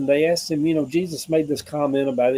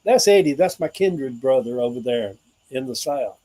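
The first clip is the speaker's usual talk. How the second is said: imitating Rosie; 3 dB louder than usual. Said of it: "Rosie's gonna run across me online and say".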